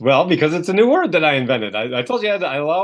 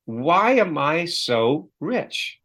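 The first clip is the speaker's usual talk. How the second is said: slow question; 2 semitones higher, much slower than usual. Shown as a demonstration. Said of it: "So an example would be".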